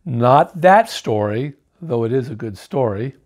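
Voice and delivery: calm a sulky son down; father worm answering calmly. Acted. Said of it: "Father Worm calmly responded".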